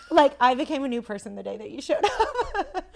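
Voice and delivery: gushing through laughter; laughing. Real, not acted. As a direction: giggle as you say it.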